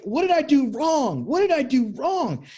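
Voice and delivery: high, hurt repetition of the same question; pained pleading. Retold or imitated. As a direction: ask it over and over like a heartbroken man. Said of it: "And in that pain".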